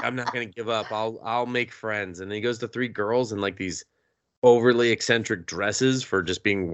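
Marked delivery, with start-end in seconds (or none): 0.0-2.2 soft, muttered self-pep talk; quiet resolve. Retold or imitated. Lonely boy quietly vowing to make friends, soft. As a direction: quietly promise yourself. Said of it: "He's like".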